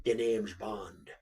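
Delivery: low, slow Bond introduction; Pierce Brosnan impression. Correcting co-host's version, low slow impression. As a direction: draw it out in a put-on spy voice.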